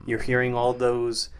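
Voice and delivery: deadpan, flat, no ups or downs; dry monotone delivery, poker-faced. Pretend. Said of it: "my monotone voice".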